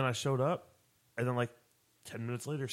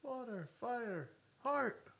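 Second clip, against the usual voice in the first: Captain Planet call; much slower than usual. Retold or imitated. Captain Planet element roll call.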